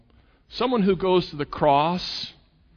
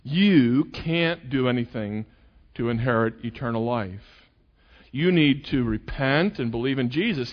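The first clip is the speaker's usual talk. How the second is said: sincere gospel demo. Shown as a demonstration. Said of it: "tell the person something like this".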